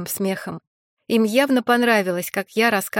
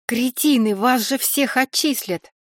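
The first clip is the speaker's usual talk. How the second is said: shouting; 4 semitones higher than usual. Acted. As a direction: shout the warning at them. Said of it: "закричала я".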